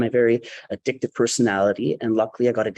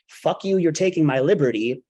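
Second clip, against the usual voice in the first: recapped outburst; 4 semitones higher than usual. Retold or imitated. Storyteller recapping what the whole plane had heard, mock yell. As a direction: replay the outburst at talking volume. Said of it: "that all heard".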